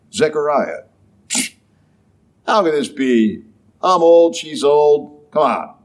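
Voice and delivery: doubting, mildly scoffing question; incredulous tone. Retold or imitated. Zechariah doubting the angel, mild scoffing disbelief. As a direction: push back on the angel, unconvinced. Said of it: "there's a big difference in the tone there".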